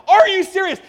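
high shouted disbelief; hammed-up overwhelmed shriek; beside herself. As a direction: blurt it loudly as the stunned mom. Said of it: "She was just beside herself".

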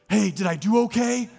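high, loud laughing question; laughing relief. Retold or imitated. Baptized man asking the pastor, laughing. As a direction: ask through a laugh of relief. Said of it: "the first thing he says is".

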